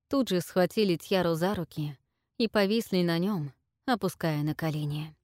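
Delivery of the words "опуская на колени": usual speaking voice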